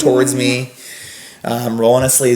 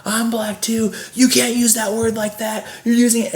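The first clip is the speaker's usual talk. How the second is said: Gary; 10 semitones higher, 3 dB quieter than usual. Retold or imitated. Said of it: "he rolls his sleeve up and he goes".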